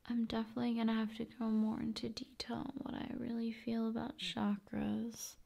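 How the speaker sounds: fast soft whisper; ASMR whisper. Acted. ASMR host whispering plans to viewer. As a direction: rush it out in a whisper.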